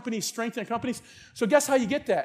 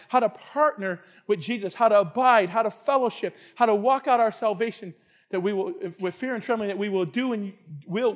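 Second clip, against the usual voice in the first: closing prayer. Real, not acted. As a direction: pray aloud for the congregation, phrase by phrase.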